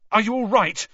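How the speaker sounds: high, loud urgent check; roughly. Acted. Harry to fallen Cedric, rough urgent call. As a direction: bark it out with worry. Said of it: "Harry said roughly".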